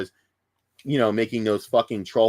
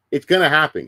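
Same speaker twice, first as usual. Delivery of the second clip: louder, punchy "gonna happen"; loud prediction; 3 semitones higher, 6 dB louder than usual. Real, not acted. Streamer insists to chat the next fad is coming, loud. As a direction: call it out to chat.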